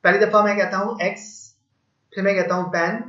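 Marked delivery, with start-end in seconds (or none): 1.0-1.2 एक्स as one separate syllable; first syllable एक्स, set apart by a pause; single syllable. Shown as a demonstration. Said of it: "इसको मैं तीन आवाजों में अदा करता हूँ". 2.7-3.0 पेन as one separate syllable; single syllable. Shown as a demonstration. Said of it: "इसको मैं तीन आवाजों में अदा करता हूँ".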